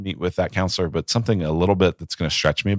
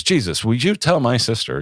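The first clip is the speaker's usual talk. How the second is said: sugary complaint pitched up, a mild send-up; passive aggressive; 6 semitones higher than usual. Retold or imitated. Martha complaining to Jesus about her sister, mock passive aggressive. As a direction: tattle on the sister with a sweet edge. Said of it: "very passive aggressively".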